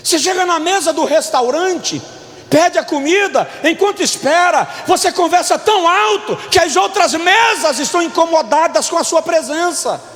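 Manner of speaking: high-pitched, forceful preaching; pregação inflamada. Real, not acted. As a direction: hammer each phrase to the congregation. (pregação inflamada, em tom agudo)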